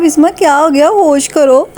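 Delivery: a touch of exasperation, retold; mild chiding. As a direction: lightly scold a child, retold. Retold telling-off of a child.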